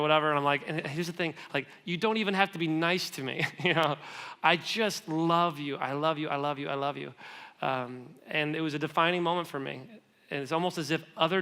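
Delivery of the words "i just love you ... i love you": tender repeated love. Retold or imitated.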